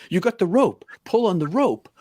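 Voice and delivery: urgent instruction. Retold or imitated. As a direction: push him to act. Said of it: "He's like".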